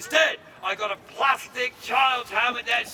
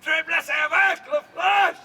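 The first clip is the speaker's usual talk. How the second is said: high, pained French outcry; wounded French warrior; 5 semitones higher than usual. Acted. Archer acts a wounded French warrior, high dramatic cry. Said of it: "Imagine being wounded terribly with an arrow".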